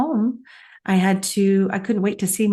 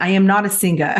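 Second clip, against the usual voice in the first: mock Australian accent, a touch louder; 4 dB louder, faster than usual. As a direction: lightly imitate an Australian speaker. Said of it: "Australian accent".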